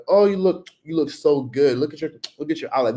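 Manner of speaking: flirty compliment. Retold or imitated. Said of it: "they'll be like".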